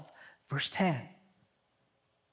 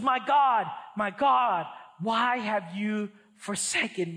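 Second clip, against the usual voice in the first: a touch of an anguished cry, a little louder. Acted. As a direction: call it out like the cry from the cross. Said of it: "cried out in a loud voice".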